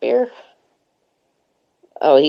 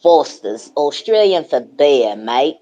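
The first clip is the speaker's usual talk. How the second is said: Australian accent. Shown as a demonstration. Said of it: "Do it again, do it again".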